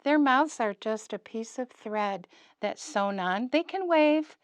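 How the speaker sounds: lightly voiced friendly puppet talking to kids; a hint of a cheerful puppet character; Derek the puppet. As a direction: puppet chatting brightly with the preschool class. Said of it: "Derek's coming back on my lap because he wants to talk to you".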